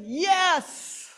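high shouted yes; crowd shout. Retold or imitated. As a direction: cheer like a crowd. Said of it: "Everybody shouted".

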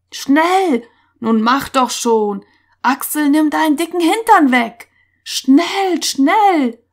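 high, loud, impatient calls; urgent shouting. A narrator's reading. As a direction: shout them along to hurry into shelter. Boys jostling at tent entrance.

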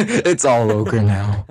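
slow, drawn-out ogre mimicry; ogre impression. Friend repeats the pun, slow mock ogre voice. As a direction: echo it slowly like an ogre.

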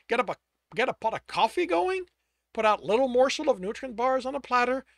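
loud, high, exasperated yelling; shouting incredulously at the brother who hunted him; furious outburst. Acted. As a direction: blast him with disbelief and rage. Tristan yells at his brother.

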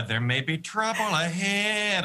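slow, musing crooned line; lightly sung-through Goldblum musing; Jeff Goldblum impression. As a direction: savour each word like a jazzy eccentric. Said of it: "I just did a little Goldblum jazzy dance".

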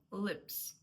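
"Lips" with a hard, unsoftened L; "Lips" with dark L and short i. Shown as a demonstration. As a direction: keep the L firm in "Lips". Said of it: "твердіше".

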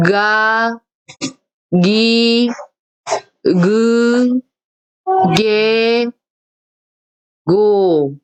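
가, 기, 그, 게, 고 read slowly and voiced; voiced sounds. Shown as a demonstration. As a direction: model 가 기 그 게 고 with voiced onsets. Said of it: "이렇게 발음을 하는 거예요".

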